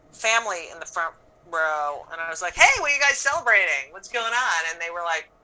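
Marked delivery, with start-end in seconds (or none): 2.5-4.6 bright, quick host greeting; cheery crowd work. Retold or imitated. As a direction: chirp it out to the front row. Greeting family in front row.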